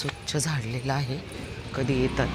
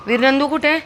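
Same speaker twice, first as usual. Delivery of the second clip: कुठे pitched even higher and louder; more excited pet question; 9 semitones higher, 6 dB louder than usual. Real, not acted. Owner repeating her question to the dog, even more excited. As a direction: push the excitement further.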